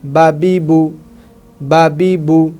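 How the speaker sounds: বা বি বু with every vowel kept short; short vowels, no stretch. Shown as a demonstration. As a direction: say বা বি বু crisply, never stretching a vowel. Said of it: "কীরকম পড়ব?". (বা বি বু ছোট করে, টান ছাড়া)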